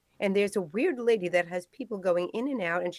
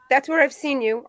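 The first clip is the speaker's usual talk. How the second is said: louder "That's where I've seen you."; sudden recognition; 3 semitones higher, 8 dB louder than usual. Acted. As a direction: realize it suddenly.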